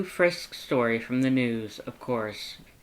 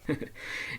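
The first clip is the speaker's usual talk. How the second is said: snicker; 7 dB quieter than usual. Acted. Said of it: "Sans snickers".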